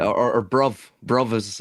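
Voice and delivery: bruv said with a short u, as in London; bruv, the way they say it down south; London slang. Shown as a demonstration. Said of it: "as they say down here".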